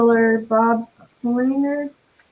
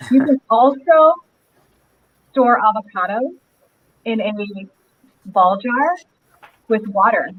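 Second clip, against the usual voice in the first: big hall echo; 3 dB louder than usual. Real, not acted. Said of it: "still echoing".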